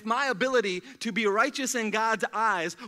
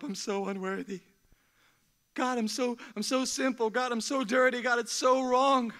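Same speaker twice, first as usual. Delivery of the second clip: a mild mock wail of a sinner, rising higher; imitating penitent crying; 3 semitones higher than usual. Preacher imitating weeping people at the altar, mildly pleading.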